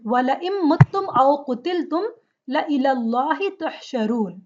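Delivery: intoned, measured Arabic recitation; Quran recitation. Acted. Teacher recites the verse for students, recitation style. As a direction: chant the verse in flowing recitation.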